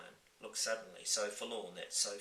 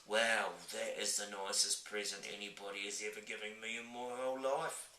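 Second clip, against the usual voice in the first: touched giant. Acted. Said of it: "cried the B F G".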